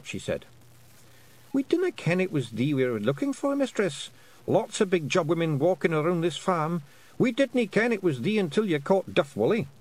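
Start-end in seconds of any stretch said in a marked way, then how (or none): 1.5-9.7 high, lilting Scots wee-man voice; a tiny Scots chief, earnestly explaining; Feegle voice. Acted. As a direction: Rob Anybody explaining to Tiffany, high Scots voice. Rob Anybody explains.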